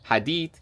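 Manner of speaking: hadit spoken as Russian khah-DEET; Russian verb. Shown as a demonstration. Listing verbs of motion to viewers, hadit in Russian. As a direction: pronounce hadit the Russian way, stress on the end. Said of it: "You have so many words about to go".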